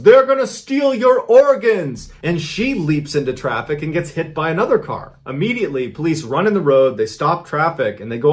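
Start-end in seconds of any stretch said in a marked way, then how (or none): 0.0-2.1 slow, high-pitched shout, acting out her outburst; retold yell. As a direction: imitate a panicked warning yell, high and loud. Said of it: "Sabina yells".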